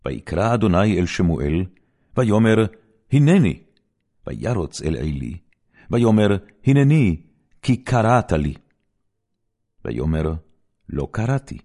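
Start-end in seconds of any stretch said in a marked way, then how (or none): 3.1-3.6 high, loud eager answer; a boy jumping up to answer; eager reply. Acted. Samuel answering the voice he heard, high and eager. 6.6-8.5 high and loud, keen to serve; eager reply. Acted. Samuel to Eli, keen and raised.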